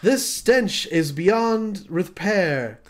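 very slow, grave disgust; dramatic line read. Acted. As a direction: savour each word like a ham actor. Scripted line read in scene.

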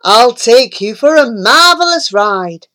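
a hint of a vain toad; lightly voiced boastful toad. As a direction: show off proudly. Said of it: "he cried".

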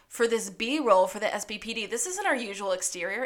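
incredulous outburst, voice jumping up; baffled, lively complaint; indignant. Retold or imitated. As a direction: read your own outraged note aloud. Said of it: "And I just wrote".

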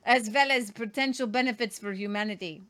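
light mock European villain accent; bad guy accent. Host finishing the EU chief's quote, bad guy accent. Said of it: "this is my bad guy helmet".

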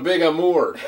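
"Big Amour" with "Amour" stressed on its end; French-sounding Amour. Retold or imitated. Player teasing a friend's mispronunciation, French-sounding "Amour". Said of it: "No, that's French".

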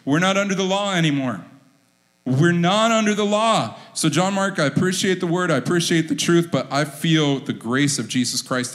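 lightly hammed-up believer brushing off the rule; mock objection. A hint of a churchgoer dodging the tithe, mock protest. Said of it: "Christians have had this response".

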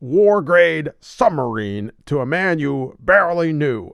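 slow, disapproving Batman voice; judgy Batman. Retold or imitated. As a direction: scold him slowly, judgy.

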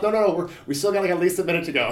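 loud and high, waving off the refs; loud defiant shout. Retold or imitated. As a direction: shout it, refusing to stop the fight.

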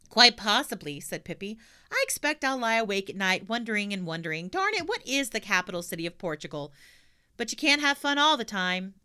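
put-on high, pert girl; sassy little girl; cheeky girl voice. Pippi retorts.

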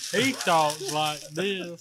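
a slow drawl imitating a coworker; lightly voiced slow coworker; imitating slow Julian. Mimicking how slow coworker Julian talks, mild drawl. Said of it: "That's how slow Julian is".

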